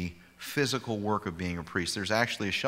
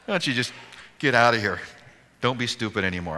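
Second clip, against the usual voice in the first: louder, half-laughing mock order from the officer; mock officer yell; 4 semitones higher, 7 dB louder, faster than usual. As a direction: bark it like the cop, still amused. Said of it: "He said".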